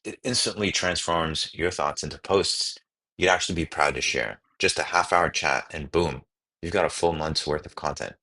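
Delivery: upbeat promo voiceover; ad read. Acted. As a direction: sell it like a product ad. Reads ad script aloud.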